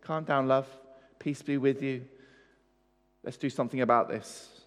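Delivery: calm, kindly murmur, imitating a comforter; imagined gentle reassurance. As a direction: quietly comfort someone in distress. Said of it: "Does he stop and talk to her".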